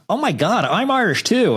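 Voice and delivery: high-pitched gushing mock American; imitating an excited stranger. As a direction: mimic an overexcited fan claiming kinship. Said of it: "somebody would come up to me".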